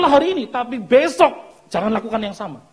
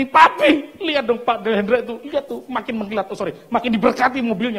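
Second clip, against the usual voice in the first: higher, loud opening call, then wheedling; goading wife; 4 semitones higher, 4 dB louder than usual. Retold or imitated. Wife egging on husband about neighbour's car, goading. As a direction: needle the husband with a mock wifely nag. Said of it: "istri juga ngomporin suami".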